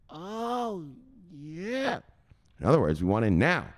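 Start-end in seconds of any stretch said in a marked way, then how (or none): 0.1-2.0 falsetto oh yeah. Pretend. Mock-falsetto exclamation.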